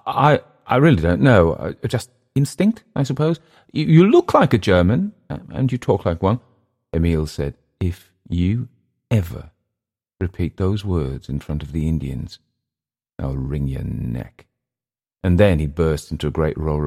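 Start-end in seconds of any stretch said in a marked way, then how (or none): 0.1-6.4 high, stammering excuse; flustered Englishman. Acted. Englishman explaining his guess to an offended host, high and stammering. 7.8-14.5 measured threat, word by word. Acted. Host threatens his guest.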